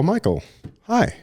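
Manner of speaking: high, lilting mom voice greeting her son; mom's bright greeting. Retold or imitated.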